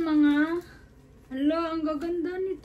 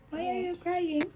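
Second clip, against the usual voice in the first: soothing; 4 semitones higher, 4 dB quieter than usual. Real, not acted. Soothing a crying child.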